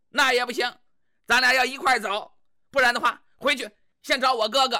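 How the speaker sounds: scolding wife. Acted. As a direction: lay down the law to him like a bossy wife. Wife threatens husband.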